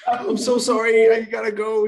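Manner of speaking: high, loud, flustered backing out; panicked words tumbling out; flustered apology. Retold or imitated. Salesman scrambling to leave after the embarrassing moment. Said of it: "I was like".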